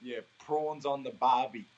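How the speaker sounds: slow, careful "barbie" with a broad open BAH; slow Australian demo. Shown as a demonstration. Coaching the host slowly on how Aussies say "barbie". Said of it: "it's like B A H".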